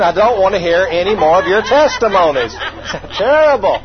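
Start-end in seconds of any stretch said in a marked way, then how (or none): 0.0-2.5 exasperated inner whine; retold impatient complaint. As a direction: drag it out, fed up with the chatter. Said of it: "such a stinking thinking attitude".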